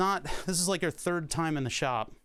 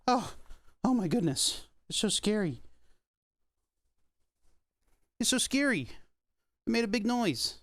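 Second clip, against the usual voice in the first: much higher, playful pretend fright; mock alarm; 8 semitones higher than usual. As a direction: fake a scare for the puppy. Mock fear with puppy.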